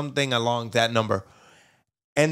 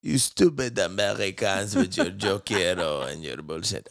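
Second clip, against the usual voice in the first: a lightly hammed French sneer; mock French accent; 5 semitones lower than usual. On request from his friend, lightly mocking French accent. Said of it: "I wanna hear that with the French accent".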